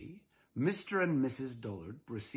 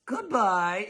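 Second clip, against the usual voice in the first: mild curt goodbye; 8 semitones higher, 7 dB louder than usual. Acted. Dullards shutting the door.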